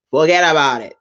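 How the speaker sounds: punchy mock Italian accent; bad Italian accent. Host dismissing the wrong things, mock Italian accent. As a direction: toss in a playful fake Italian accent. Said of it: "It's, like, the worst Italian accent".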